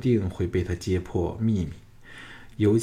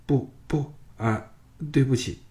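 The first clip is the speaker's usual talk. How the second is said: flustered refusal; 6 semitones higher than usual. A narrator's reading. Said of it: "猛摇头说".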